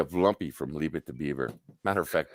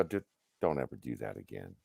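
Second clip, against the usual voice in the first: lower, softer, firm caution; stern warning; 11 semitones lower, 10 dB quieter than usual. Retold or imitated. Supervisor warning the big guy off, lower and softer. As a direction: lean in and lay down the rule.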